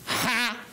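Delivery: high mock "ha"; put-on ridiculous little noise; ridiculous sound. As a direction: imitate a silly, high exclamation.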